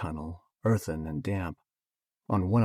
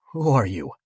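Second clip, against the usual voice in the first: attempted growl; 3 semitones higher, 7 dB louder than usual. A narrator's reading. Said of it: "I asked in a growl".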